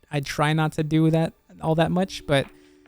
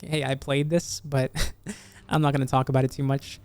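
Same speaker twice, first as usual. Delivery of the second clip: losing voice, a bit hoarse; 3 dB quieter than usual. Real, not acted. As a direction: voice going hoarse. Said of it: "I am definitely losing my voice slowly".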